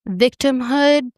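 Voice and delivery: "victimhood" slowed and set apart after a pause; drawn-out emphasis. Real, not acted. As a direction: land "victimhood" slowly, dramatically. Dramatic pause before word.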